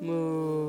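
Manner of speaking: low cow moo. Shown as a demonstration. Parent answers what a cow says, low moo. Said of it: "What does a cow say?".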